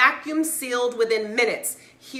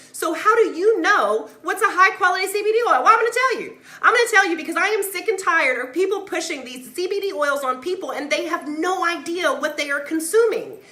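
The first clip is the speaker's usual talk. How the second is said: real heated rant at the audience; fired-up yelling; 5 semitones higher than usual. Real, not acted. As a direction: fire it at them like a scolding. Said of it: "So I'm gonna stop yelling at y'all".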